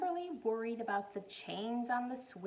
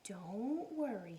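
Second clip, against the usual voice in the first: mother voice; 3 semitones lower, slower than usual. Acted. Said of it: "said her mother".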